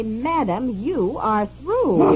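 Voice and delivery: slow, drawn-out final pronouncement; imitated rudeness, stretching out the last words; rude operator. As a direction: mimic a curt operator dismissing a caller. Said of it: "said in this rude way".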